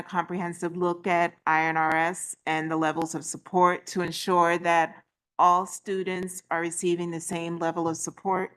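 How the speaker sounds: muffled behind mask; talking through a mask. Real, not acted. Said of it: "Can't talk with this mask on".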